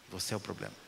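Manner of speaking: hushed, "é" stressed, dropping away; whisper-close final verdict. Acted. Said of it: "Você é o problema dessa empresa".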